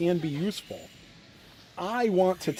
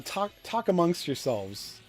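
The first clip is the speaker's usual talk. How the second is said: church lady line; 3 semitones higher than usual. Retold or imitated. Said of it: "that old church lady line".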